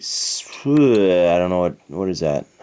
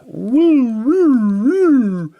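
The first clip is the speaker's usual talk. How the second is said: excited cheer; 13 semitones higher, 4 dB louder, much slower than usual. Real, not acted. Cheering for his home country Canada.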